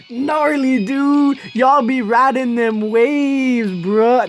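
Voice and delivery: slow, easygoing surfer dude. Pretend. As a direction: stretch it out like a beach surfer. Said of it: "I just sound like a surfer".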